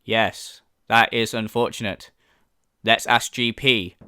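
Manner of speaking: lightly mimicked emotionless hero; Kent. Kent replying to a panicked companion, mock emotionless. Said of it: "Show some emotion".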